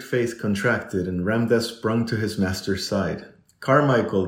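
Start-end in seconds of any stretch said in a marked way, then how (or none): 3.6-4.3 louder, higher gasp of a name; urgent, narrated gasp; gasped cry. A narrator's reading. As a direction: call out in shock. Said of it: "the invalid gasped".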